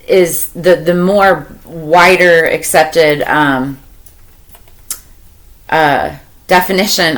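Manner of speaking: halting, searching for the right word; stumbling over words. Real, not acted. Tarot reader groping for a card's definition, stumbling. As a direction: trip over the phrasing, stalling on ums. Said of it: "stumbling on my words right now".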